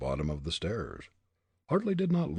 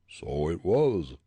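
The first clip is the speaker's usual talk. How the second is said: slow eerie head voice; ghostly head voice; 5 dB louder, slower than usual. A narrator's reading. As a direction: speak as a dead head. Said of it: "the head seemed to say".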